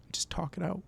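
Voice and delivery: a soft whispered nudge. Real, not acted. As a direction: breathe it out, no voice. Urging viewers to pray aloud.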